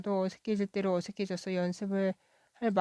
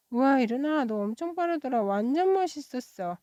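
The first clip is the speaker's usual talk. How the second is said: excited praise; 5 semitones higher than usual. Acted. Classmate cheering her after the race, excited and higher. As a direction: gush over her speed with a lifted voice.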